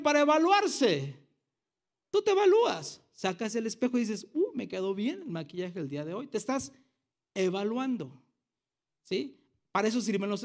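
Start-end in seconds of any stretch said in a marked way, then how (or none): 4.3-6.3 mock mirror check. Voicing a woman at the mirror.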